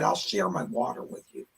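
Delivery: soft unvoiced whisper to a puppet; hushed whisper to a puppet lamb. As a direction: whisper gently to the little lamb. Talking to puppet Lamb Chop.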